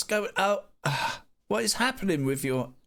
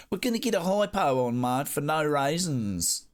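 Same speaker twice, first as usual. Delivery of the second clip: put-on rough Antipodean accent, dragged out at the end; attempted Kiwi accent, more Australian. Streamer repeats a chat message in a rough Australian-Kiwi accent. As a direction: have a go at New Zealand, landing in Australian. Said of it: "I know that's Australian, but it's best I can do".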